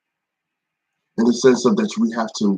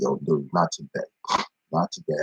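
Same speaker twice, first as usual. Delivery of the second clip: inner voice; 8 semitones lower, 8 dB quieter than usual. Retold or imitated. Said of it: "In my mind, I was like".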